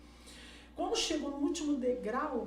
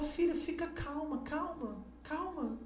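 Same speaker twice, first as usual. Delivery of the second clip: calming daughter; 4 semitones higher than usual. Retold or imitated. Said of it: "Eu tive que acalmar ela".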